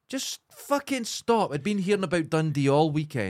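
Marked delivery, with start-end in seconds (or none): 0.1-1.5 higher, slow, exasperated plea; mock angry plea. Venting to a friend about a weekend of Dundee jokes, slow and exasperated. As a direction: stretch it out in fed-up anger. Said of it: "I was so angry".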